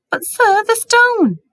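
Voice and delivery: high, loud pressing; urgent insistence. A narrator's reading. Harry insisting to Dumbledore about the stone, high and urgent. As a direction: press the point anxiously.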